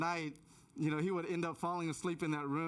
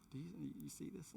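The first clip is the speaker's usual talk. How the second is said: hushed, much softer aside; hushed alarm; 12 dB quieter than usual. Retold or imitated. Husband to wife in bed about an eerie figure, hushed. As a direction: ask it under your breath, alarmed.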